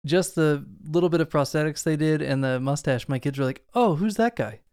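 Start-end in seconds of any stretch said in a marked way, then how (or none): 3.7-4.6 put-on kids' question. Voicing the kids' innocent question.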